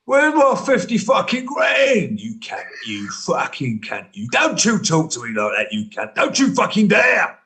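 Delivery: lightly voiced tough-guy menace; Tom Hardy. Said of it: "Do it, Tom Hardy".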